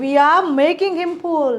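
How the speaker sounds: very slow, clear dictation of each English word; teacher modelling English slowly; slow model sentences. Shown as a demonstration. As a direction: spell the sentence out slowly for learners. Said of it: "આનું positive શું થતું હતું?".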